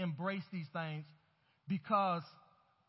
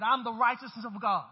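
emphatic, louder declaration; like you mean it; 6 dB louder than usual. Shown as a demonstration. Preacher prompting the congregation to confess righteousness, like you mean it. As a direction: declare it with firm conviction. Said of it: "Say it like you mean it".

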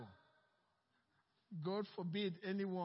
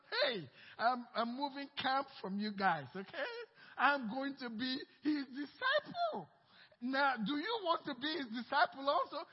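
teasing; 3 semitones higher, 3 dB louder than usual. Acted. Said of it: "he's telling them".

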